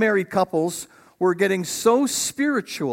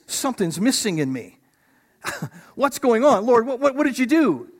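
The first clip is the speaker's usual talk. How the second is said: puzzled Adam; 5 semitones higher than usual. Retold or imitated. Pastor voices puzzled Adam waking.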